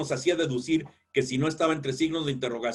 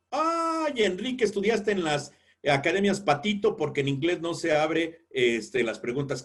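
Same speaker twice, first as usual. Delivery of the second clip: mocking know-it-all. Mocking a critic who corrects the teacher.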